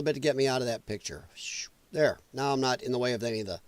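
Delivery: quick low whisper under the breath; hurried whisper to himself; whispered aside. Real, not acted. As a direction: drop to a hushed whisper as an aside. Whispered aside while adjusting screen.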